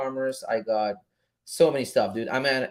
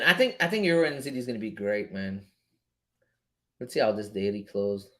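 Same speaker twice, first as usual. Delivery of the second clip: ordinary talk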